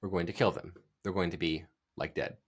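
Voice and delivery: understated ironic delivery; quiet deadpan quote. Retold or imitated. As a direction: throw it away under the breath. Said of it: "a little bit of irony".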